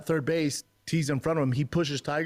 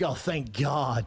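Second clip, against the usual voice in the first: retold relief; much slower than usual. Dad relieved at other father's reaction.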